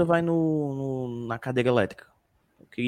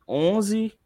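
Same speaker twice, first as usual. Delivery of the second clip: slow title read; much slower than usual. Real, not acted.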